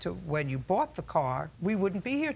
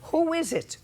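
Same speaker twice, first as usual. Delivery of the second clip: demanding; 11 semitones higher, 4 dB louder than usual. Real, not acted. Judge presses about the friend.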